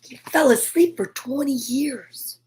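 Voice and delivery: soft unvoiced aside to the listener; whisper. Real, not acted. Reader whispering an amazed aside between books. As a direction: breathe the words, no voice.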